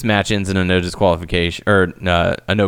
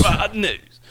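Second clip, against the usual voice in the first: high mock voice; 13 semitones higher than usual. Echoing Bad News Barrett high.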